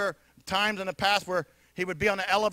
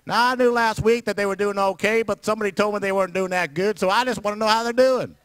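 chatty southern neighbour; 5 dB louder than usual. Retold or imitated. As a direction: drag out the nosy friendly questions. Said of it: "Down here".

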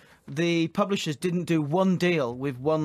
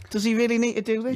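mock Roy Keane; 6 semitones higher than usual. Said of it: "saying with his mad eyes".

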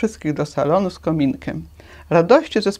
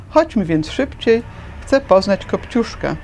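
pleading; 4 semitones higher than usual. Acted. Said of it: "prosiła dziewczynka z zapałkami".

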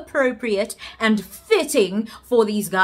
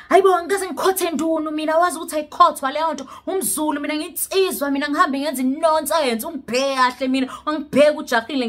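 fast, higher mock-macho protest; guy's boastful denial; 4 semitones higher, faster than usual. Imitating the guy bragging he is a real Zulu man, fast and higher. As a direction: rush it like a puffed-up guy denying everything. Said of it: "And he's like".

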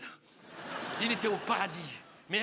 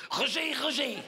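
swooping double call; lightly voiced woman hailing the beloved; lovestruck woman calling; 2 semitones higher than usual. Oula comes up to Roger, lovestruck call. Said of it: "elle a fait".

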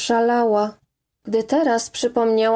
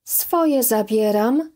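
ordinary delivery

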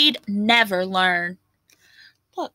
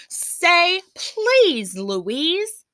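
pleading chorus; 7 semitones higher, much slower than usual. A narrator's reading. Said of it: "the others pleaded".

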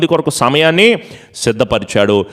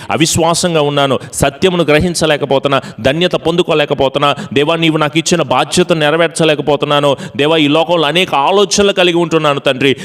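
pleading prayer; 4 semitones higher than usual. Shown as a demonstration. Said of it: "ప్రాధేయపడు".

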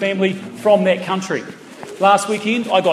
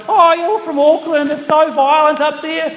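heckling Christchurch woman; 9 semitones higher than usual. Retold or imitated. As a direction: put on a prissy lady lecturing the comic. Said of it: "she just stands up and goes".

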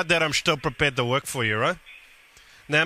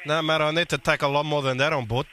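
Guido prank character. Acted.

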